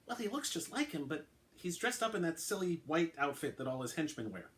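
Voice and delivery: lightly voiced uniformed officer, reluctant; a hint of a nervous young officer explaining; officer Cunningham. Cunningham speaks, raised pitch.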